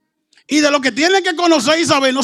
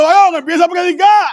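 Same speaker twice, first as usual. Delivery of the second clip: mock urging shout; 3 semitones higher, 5 dB louder than usual. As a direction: call out to him to get going. Retold church member urging preacher. (grito de ánimo imitado)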